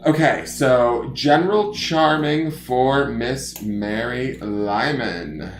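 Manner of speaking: slow campy announcer voice; throaty drag queen voice. Pretend. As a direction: drag out the name like a drag queen host. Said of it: "I like to speak in a throaty drag queen voice".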